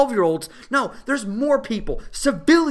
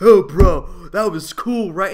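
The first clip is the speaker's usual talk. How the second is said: loud, bragging bro; lightly voiced bro teen; 2 semitones lower, 8 dB louder, slower than usual. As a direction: brag like a dude to his buddy.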